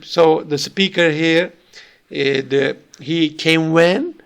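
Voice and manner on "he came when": slow echo question leaning on "when"; stressed question word. Shown as a demonstration. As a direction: draw out "when" as if you missed the time. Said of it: "if he asked the question like this".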